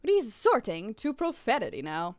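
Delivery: put-on half-remembered British accent, slowing down; hammy British reproach; attempted British accent. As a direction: put on a shaky British accent for a snooty customer. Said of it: "I forgot how to do a British accent".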